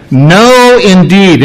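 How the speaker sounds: mother refusing the name, emphatic. Retold or imitated. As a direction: plant your feet and refuse outright. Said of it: "it's very emphatic".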